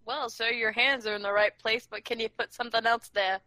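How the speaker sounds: mock British accent, politely coy. Roleplaying asking a guy, in a mock British accent. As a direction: put on a rough British accent for a proposition. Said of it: "talking like a fucking British person".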